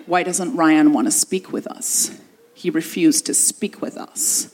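put-on slow, low Canadian accent with menace; a Canadian elder trying to sound threatening; sinister Canadian elder. Canadian elder interrogating her in a locked room, slow and sinister. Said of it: "hard to make the Canadian accent sinister".

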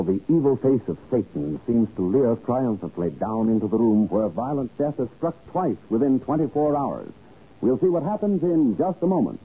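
ordinary talk, nothing marked

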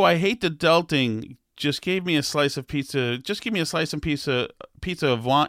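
stumbling read, "pizza of wine" garbled; fumbled reading. Real, not acted. Podcaster misreads a TikTok comment aloud, stumbling. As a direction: trip over the quote while reading. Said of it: "let me try again".

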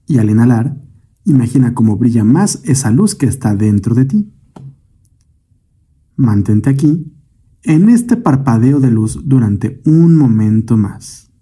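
calm meditation guide, measured phrases with long pauses; guided meditation. Acted. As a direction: lead the listener gently through breath and imagery, unhurried. Leads a guided breathing meditation. (meditación guiada, voz tranquila y pausada)

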